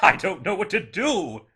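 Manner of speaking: high, loud, giddy exclamation; flustered, elated outburst; overjoyed cry. A narrator's reading. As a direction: cry out, beside yourself with joy. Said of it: "cried Scrooge, laughing and crying in the same breath".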